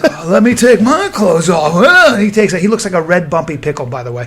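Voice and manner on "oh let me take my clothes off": slow put-on voice of an eager friend; lightly hammed-up imitation; Jimmy Burke. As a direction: drag it out, imitating him. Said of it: "So Jimmy's like".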